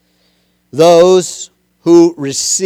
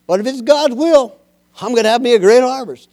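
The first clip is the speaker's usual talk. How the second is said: higher-pitched hint of a hopeful farmer; lightly voiced farmer; 5 semitones higher, faster than usual. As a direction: lightly act the farmer counting on a harvest. Farmer voiced in a sermon illustration.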